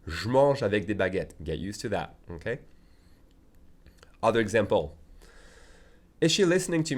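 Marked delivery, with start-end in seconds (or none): 0.1-1.3 "Je mange" with the E dropped, said "j'mange"; casual contraction; fast native form. Shown as a demonstration. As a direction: run the words together like a native. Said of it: "That's how native speakers will say it".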